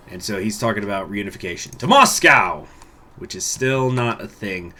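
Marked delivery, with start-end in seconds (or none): 1.8-2.7 mock rallying cry.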